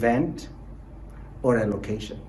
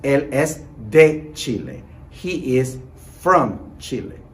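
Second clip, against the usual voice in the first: slow clear model; slower than usual. Shown as a demonstration. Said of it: "in the response".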